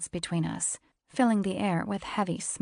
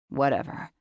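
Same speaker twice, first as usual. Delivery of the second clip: lower, husky-free steady man's voice; low male voice; 4 semitones lower, 3 dB louder than usual. A narrator's reading. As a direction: voice him low and cool.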